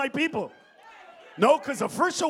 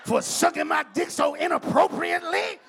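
mock outrage; 5 semitones higher, 6 dB louder than usual. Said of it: "I never was like".

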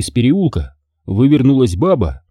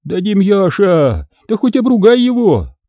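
tender coaxing; 9 semitones higher than usual. Acted. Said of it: "и вдруг ласково".

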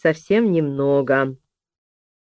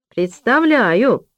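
put-on very slow, high child's answer; slow drawn-out reply; 6 semitones higher, 4 dB louder, much slower than usual. A narrator's reading. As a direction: draw the word out slowly. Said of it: "проговорила Аня Санчук".

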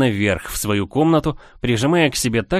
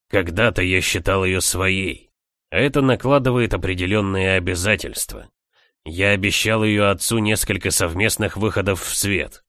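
calm male character voice; 3 semitones lower than usual. Acted. Leo explains his duty.

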